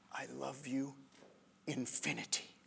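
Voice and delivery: soft, breathy whisper of love. Retold or imitated. Son whispers to his mom, tender whisper. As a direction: whisper it close to her face. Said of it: "And then he whispers".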